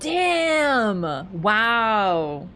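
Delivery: loud surprised exclamation. Real, not acted. Reacts to chat's claim.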